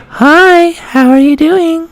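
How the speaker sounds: very high, drawn-out feminine greeting. Shown as a demonstration. Demonstrating the practised greeting, high feminine voice. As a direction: stretch it out way up high. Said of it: "I say".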